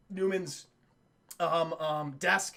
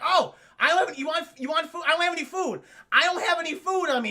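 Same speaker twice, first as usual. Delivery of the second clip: raised, loud mock-friendly voice; talking to an animal; 7 semitones higher, 5 dB louder, faster than usual. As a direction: address it like a begging pet. Acting Newman talking to dinosaur.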